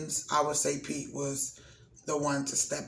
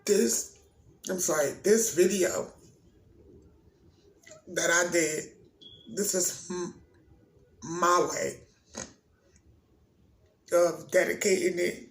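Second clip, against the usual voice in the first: barely holding it together while dedicating the video; choking up; 3 semitones higher, 3 dB louder than usual. Real, not acted. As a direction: voice breaking, pitched higher and louder, fighting tears. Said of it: "I'm getting emotional".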